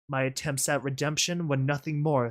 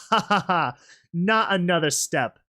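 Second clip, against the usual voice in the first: mocking laugh into a warning; menacing taunt; 4 semitones higher, 3 dB louder than usual. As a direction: warn them off, toying with them. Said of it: "The tone of her voice".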